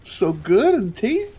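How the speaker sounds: squeaky high yum voice; high tasty voice. Acted. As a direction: squeal it like a delighted critter. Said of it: "I love it when he does that".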